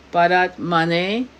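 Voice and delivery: slow, drawn-out mantra word; deliberate demonstration, ending on a rise; mantra recitation. Shown as a demonstration. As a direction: sound out the mantra slowly. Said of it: "the mantra that we're gonna do".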